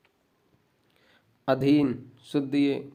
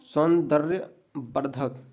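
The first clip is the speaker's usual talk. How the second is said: सौंदर्यवर्धक slowly, in separated parts; careful teacher's slow repeat; slow dictation; slower than usual. Shown as a demonstration. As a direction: spell it out by sound, unhurried.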